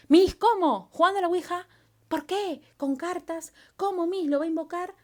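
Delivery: high, loud incredulous student questions; puzzled student. Retold or imitated. Teacher voicing a confused student asking about the ouija, high and loud. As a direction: play the baffled pupil firing questions at Miss.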